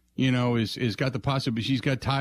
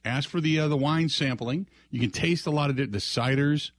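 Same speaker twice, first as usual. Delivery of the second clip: upbeat live-read radio ad; chipper 1950s ad; 3 semitones higher than usual. Acted. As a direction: sell it like a cheerful pitchman. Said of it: "brought to you by our friends".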